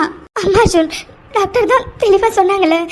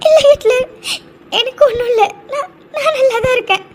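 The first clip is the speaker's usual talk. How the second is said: crying. Acted. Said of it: "ஏன் இப்ப அழற?".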